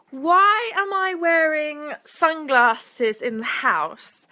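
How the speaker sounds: slow stage whisper, as if sharing a secret. Real, not acted. Streamer whispering a joke aside to her viewers, slow whisper. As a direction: lean in and whisper the question slowly.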